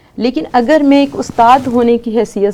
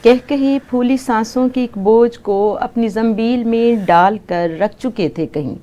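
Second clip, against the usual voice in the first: poem recitation. Acted. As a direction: recite it like at a mushaira. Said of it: "اس میں سے ایک نظم سناتی ہوں".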